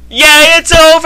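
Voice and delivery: high, loud hooray; gleeful high-pitched whoop; relieved cheer. Real, not acted. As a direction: cheer like it's finally finished. Cheering the end of a chapter.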